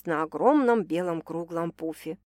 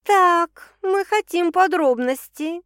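keen, pushy demand, higher and louder, slowed; eager; 9 semitones higher, 6 dB louder, much slower than usual. A narrator's reading. Friend demanding details about the new man, eagerly. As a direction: press her for the juicy details. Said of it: "азартно заявила Лялька".

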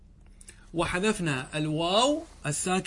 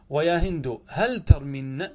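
slow model take; 3 dB louder, slower than usual. Shown as a demonstration.

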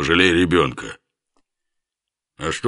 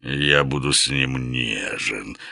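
languid purr; 2 semitones lower, slower than usual. Acted. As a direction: purr it lazily like a big tomcat. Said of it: "томно промурлыкал Лев".

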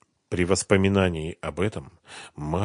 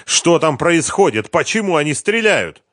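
alarmed; 9 semitones higher, 6 dB louder than usual. A narrator's reading. Colonel alarmed by shooting.

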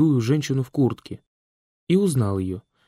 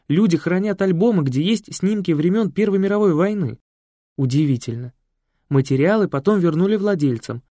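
lightly voiced Екатерина; 5 semitones higher, 3 dB louder than usual. Екатерина's long story.

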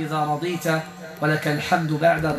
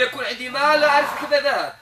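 higher mock voice of the complainer, with a laugh; mocking his complaint; 7 semitones higher than usual. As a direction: ham up his lament about lost money. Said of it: "يقول لي". (تقليد ساخر لشكواه بصوت أعلى)

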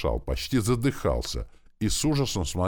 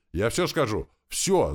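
high, panicked cry of surrender; terrified shout; 6 semitones higher, slower than usual. A narrator's reading. Captive screams in terror at the flame, surrendering. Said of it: "закричал Дерон с ужасом".

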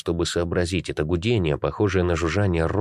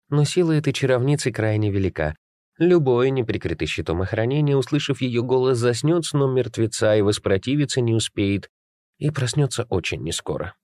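raised, grave warning voice; ominous sword voice; 7 semitones higher than usual. A narrator's reading. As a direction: warn them with dark weight. Sword warns of the spell.

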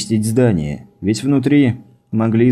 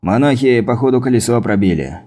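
shout; 3 semitones higher than usual. Acted. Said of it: "крикнул он Гриве".

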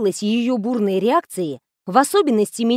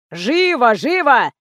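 mild shouting; 3 dB louder, slower than usual. A narrator's reading. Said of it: "заорал из коридора Фомин".

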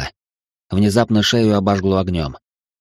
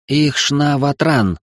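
slow, higher, imperious incantation; commanding demonic tongue; 6 semitones higher, much slower than usual. Acted. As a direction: command in the abyss language. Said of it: "звучали требовательно и властно".

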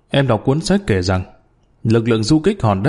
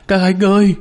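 frantic scream; 7 semitones higher than usual. A narrator's reading. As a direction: scream for help in the dark tunnel. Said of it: "gào thất thanh". (tiếng gào thất thanh, cao và to)

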